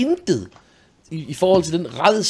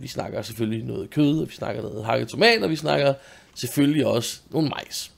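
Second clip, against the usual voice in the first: ordinary delivery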